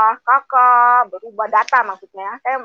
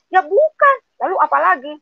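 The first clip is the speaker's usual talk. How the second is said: surprised question; 8 semitones higher than usual. Retold or imitated. Retold dialogue with friend.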